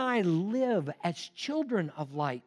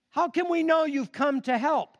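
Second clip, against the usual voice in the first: higher, louder wary question; doubtful cave dweller; 8 semitones higher, 4 dB louder than usual. A narrator's reading. Cave dweller doubting the stranger, wary. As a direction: ask like someone afraid to hope. Fearful cave people ask.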